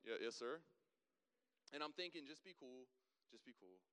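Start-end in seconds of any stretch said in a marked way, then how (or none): 0.1-0.6 dropped, lower voice after a squeak; composed recovery. Retold or imitated. Driver correcting himself to the trooper, voice lowered. 2.3-3.8 low, hushed inner voice; calming self-talk. Retold or imitated. Nervous driver steadying himself, quiet and low.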